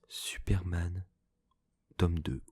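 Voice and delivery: short hushed whisper; library whisper. Real, not acted. Whispers the title. (chuchotement bref)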